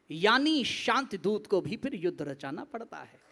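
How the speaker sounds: declaimed verse with weighty pauses; solemn stage poet; patriotic poetry recitation. Acted.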